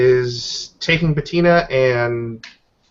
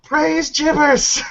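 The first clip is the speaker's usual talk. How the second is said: slow, high hammed-up hallelujah; mock praise; 3 dB louder, much slower than usual. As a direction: stretch it out like a fake zealot. Joke praise to a spirit.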